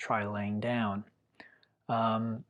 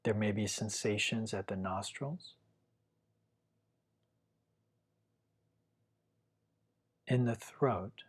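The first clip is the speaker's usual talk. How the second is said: calm, unhurried meditation guiding with long pauses; guided meditation. Real, not acted. Teacher guiding listeners to feel their breath, calm guided meditation. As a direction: gently lead the listener through following the breath, leaving long silences.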